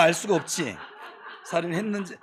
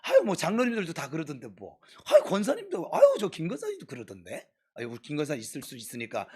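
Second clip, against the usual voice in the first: mock shameless church gossip, pitch jumping about; brazen excuse-making; 3 semitones lower, 3 dB quieter than usual. Church members excusing their sins to the pastor, brazenly. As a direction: imitate someone casually passing the blame. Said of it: "뻔뻔스럽게".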